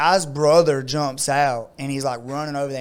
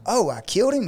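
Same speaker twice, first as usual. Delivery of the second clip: feigned surprise; 8 semitones higher, faster than usual. Retold or imitated. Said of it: "He knew he didn't kill him".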